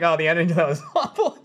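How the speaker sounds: laughing complaint. Retold or imitated. Laughing as he retells his complaint.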